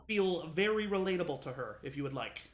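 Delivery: mock threat defending her sister; protective threat. Twin warning the player who mocked her sister, cocky menace.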